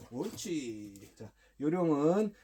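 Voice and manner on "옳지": long drawn-out, softer "good"; soft praise. Real, not acted. Trainer rewarding the dog for barking, soft praise. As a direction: stretch the praise out slowly, gently. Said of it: "칭찬은 아주 부드럽고".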